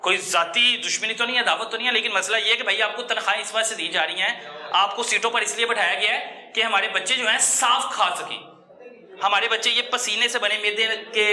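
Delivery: heated public condemnation; indignant outcry. Real, not acted. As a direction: denounce them with real outrage. Reporter denouncing food department.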